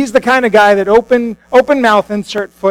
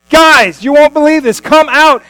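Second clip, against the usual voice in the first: loud, high, thrilled shout to the other boat; excited calling out; 7 semitones higher, 6 dB louder than usual. Acted. Fishermen shouting to partners in the other boat, amazed and loud. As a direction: yell across the water in disbelief.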